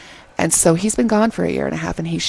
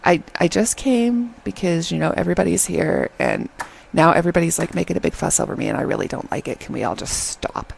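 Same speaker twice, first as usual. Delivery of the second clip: reluctant introvert. Retold or imitated. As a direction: imitate a guy uneasy with fuss. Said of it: "he's kind of an introvert".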